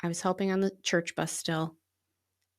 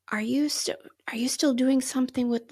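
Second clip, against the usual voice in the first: whispered, higher, as if asking a secret; hushed question; 6 semitones higher than usual. Retold or imitated. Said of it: "Jamie said something about".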